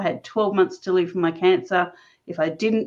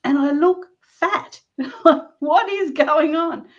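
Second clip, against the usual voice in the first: higher, slow, put-on whiny voice; mock dismay; 8 semitones higher, slower than usual. Recalling the swelling, she hams up a higher, slower whine. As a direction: wail it like a comic complaint.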